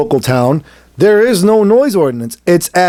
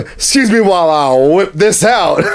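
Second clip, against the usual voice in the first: movie quote. Acted. Joking about showing officer the whip, proclaimed film quote. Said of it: "Blazing Saddles came into mind".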